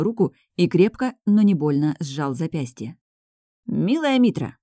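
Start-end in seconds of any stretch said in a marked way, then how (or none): 3.7-4.6 gentle, higher-pitched address; kindly. A narrator's reading. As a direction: say it kindly, lifting the voice. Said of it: "по-доброму сказал Гоник". (по-доброму, ласково)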